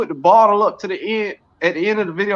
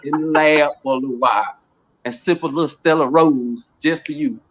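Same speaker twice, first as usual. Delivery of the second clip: mock late-night seduction, deep and unhurried; a singer's croon; 7 semitones lower than usual. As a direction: drop it low and take your time. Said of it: "It just sound like Barry White".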